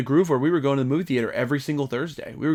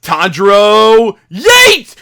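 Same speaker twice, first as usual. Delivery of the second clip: slow high yelled battle cry; shouting an anime attack; hammed-up hero cry; 6 semitones higher, 10 dB louder, much slower than usual. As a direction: yell the attack name. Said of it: "he'd be like".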